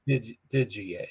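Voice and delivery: "Digier" sounded out as DIH-jee-ay, with a j; "Digier" broken off, then said whole as didgy-ay; trying out pronunciation. Shown as a demonstration. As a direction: tentatively try "Digier" with a j in the middle. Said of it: "if you say D J".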